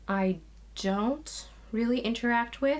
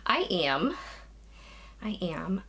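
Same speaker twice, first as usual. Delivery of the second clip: out of breath. Real, not acted. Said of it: "if I sound a little bit out of breath".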